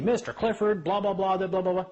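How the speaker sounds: lightly hammed-up lecture; mocking droning judge.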